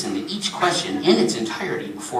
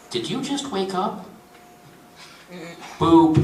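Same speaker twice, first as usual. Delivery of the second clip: automated hotline delivery passing judgment; lightly voiced scolding automated operator; judgmental phone system; 4 semitones higher than usual. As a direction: needle the caller in a recorded menu voice.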